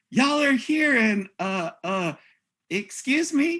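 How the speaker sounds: very high, caught-off-guard, surprised voice. Retelling ripping down a shower curtain, the speaker acts out his surprise. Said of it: "he's like all surprised".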